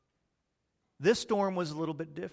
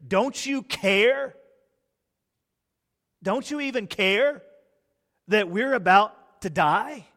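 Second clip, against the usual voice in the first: pleading panic; 4 semitones higher, 4 dB louder than usual. Retold or imitated. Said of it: "came to him and said".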